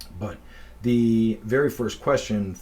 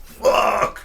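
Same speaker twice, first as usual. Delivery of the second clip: muttered curse; 9 dB louder than usual. Retold or imitated. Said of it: "He goes".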